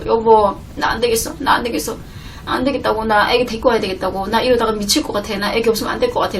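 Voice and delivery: soft, teary pleading to husband; softly pleading, half crying; tearful plea. Retold or imitated. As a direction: beg quietly, close to tears. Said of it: "막 울면서 있잖아요".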